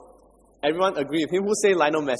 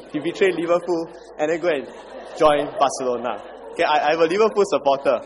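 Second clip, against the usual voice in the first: mock outraged fan; 5 dB louder than usual. Real, not acted. Fan ranting about betrayal.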